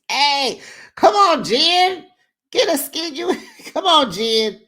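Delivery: very high, loud cheering on; urging callout. Real, not acted. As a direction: egg her on like a fan yelling. Calling out Jen, urging her.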